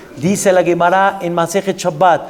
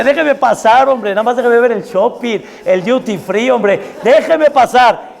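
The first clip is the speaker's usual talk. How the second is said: eager traveller; 5 semitones higher than usual. Retold or imitated. Cheerful departing traveller at security.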